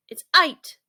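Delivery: high, loud insistent correction. Acted. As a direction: set them straight, loud. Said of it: "said the monkey".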